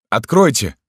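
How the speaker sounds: loud, high demand; urgent call. A narrator's reading. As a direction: call through a locked door. Locked out, knocking.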